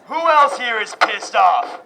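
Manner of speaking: rally cry. Real, not acted. Rallying the crowd.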